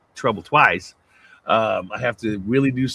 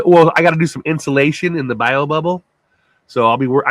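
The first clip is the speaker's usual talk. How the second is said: ordinary delivery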